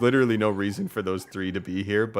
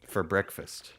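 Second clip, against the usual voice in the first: softer innkeeper in mock-Russian accent; rough Russian accent; 2 semitones lower, 6 dB quieter than usual. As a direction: welcome a guest in a quiet, loose Russian accent. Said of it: "I can't do a Russian accent".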